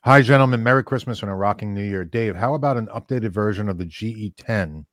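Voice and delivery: talking through a mouthful of food; mouth full. Real, not acted. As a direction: read it with food in your mouth. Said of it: "Now I gotta talk with my mouth full".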